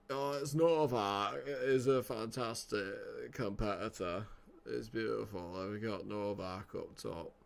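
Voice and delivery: slow, drawn-out droning praise; Andy Murray. Acted. Guest pundit praising Novak up top, slow put-on drone. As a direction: drag each phrase out as a laconic tennis player. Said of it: "I'm so bringing Andy Murray in".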